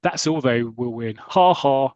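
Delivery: lightly voiced posh schoolboy; posh boys. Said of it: "that's my impression of a posh boys".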